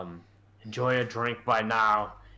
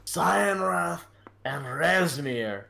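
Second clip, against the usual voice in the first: put-on Irish-Scottish accent; 2 semitones higher, slower than usual. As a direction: point at the cave in an Irish-Scottish lilt. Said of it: "the one with the Irish Scottish accent".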